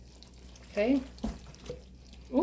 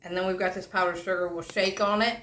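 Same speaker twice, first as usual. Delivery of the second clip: talking around candy stuck behind teeth; candy stuck in mouth. Real, not acted. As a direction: mouth full of sticky candy. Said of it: "If I'm talking funny, ... stuck up in the roof of my mouth".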